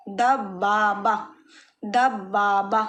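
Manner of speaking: दब बा बा with the b held double; careful syllable-by-syllable model of दब बा बा; doubled b. Shown as a demonstration. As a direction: slowly split it: दब, then long बा, then बा. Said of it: "ब आपको दो बार पढ़ना है".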